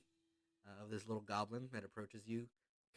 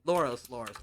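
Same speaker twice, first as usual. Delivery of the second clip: feral goblin; 11 dB louder than usual. Acted. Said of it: "this little goblin".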